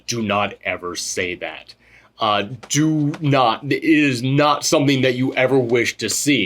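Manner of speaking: low, quiet and slow, a solemn warning; grave film quote. Retold or imitated. Host quoting the film's warning line, low and grave. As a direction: murmur it low like a stern elder.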